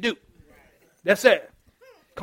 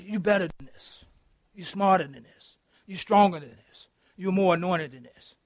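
soft encouragement; 4 semitones lower, 9 dB quieter than usual. Shown as a demonstration.

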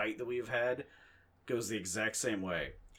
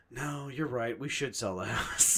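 mock giving in, slightly raised voice; a little loud; 3 semitones higher, 4 dB louder, slower than usual. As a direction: concede it loudly in a mild huff. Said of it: "get a little loud about it".

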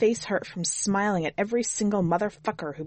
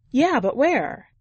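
higher, slower, insistent; woman driver pressing; 6 semitones higher, 5 dB louder, slower than usual. A narrator's reading. Driver presses hitchhiker for a destination, higher and slow. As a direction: pin him down gently, drawn out. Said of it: "driver presses the hitchhiker".

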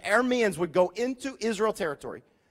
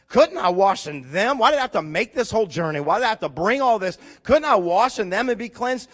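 mild anger; 4 dB louder than usual. Acted. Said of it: "Naaman went away angry".

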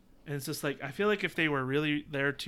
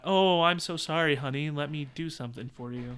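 pouty fembot. Acted. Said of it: "they're trying to be pouty".

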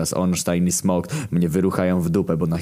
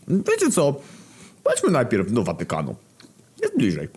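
Famine's voice; 7 semitones higher than usual. Acted. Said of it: "zaproponował Głód".

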